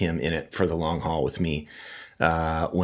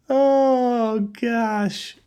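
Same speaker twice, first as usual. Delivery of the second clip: high, drawn-out recovery from real laughter; laughing sigh. Real, not acted. Host recovering from wife's joke, laughing. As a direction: come down from a laughing fit.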